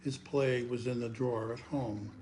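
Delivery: narrative verse in short, paused phrases; poem recitation. Acted. Poet tells of a young playwright's opening night, measured recitation. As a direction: tell it as a poem, leaning on line openings.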